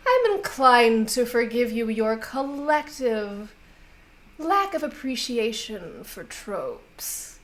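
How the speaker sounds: amused, unhurried grande dame, lightly played; a hint of an indulgent fairy noble savouring each phrase; lightly voiced fey lady. Fey lady forgiving players over the joke on Oberon, lightly indulgent.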